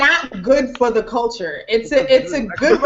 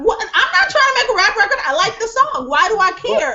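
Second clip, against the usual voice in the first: laughing it off; 9 semitones higher than usual. Real, not acted. Laughing dismissal of being mad.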